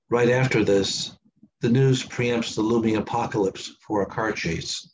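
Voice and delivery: deliberate, phrase-by-phrase recital; poetry reading. Acted. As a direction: read verse aloud with pauses between lines. Reads second poem aloud.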